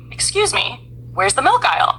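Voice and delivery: lightly Australian-accented question, starting high. Shown as a demonstration. Shopper asking in a grocery store, light Australian accent. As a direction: open high and polite with a hint of Australian accent. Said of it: "What is the sound exactly of their English?".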